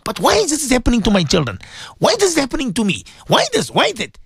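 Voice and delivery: mock complaint. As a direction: play the complainer asking why me. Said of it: "Today we say".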